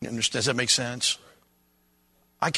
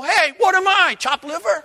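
put-on high, loud Yiddish-accent kvetch; 6 dB louder than usual. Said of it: "want to walk away and go".

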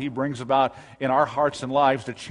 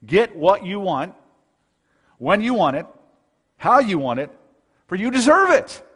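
advertising pitch; 3 semitones higher, 5 dB louder than usual. Acted. Preacher voicing what advertising communicates, punchy sales pitch. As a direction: sell it in short bursts, rising at the end. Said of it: "For advertising and thinking today communicates".

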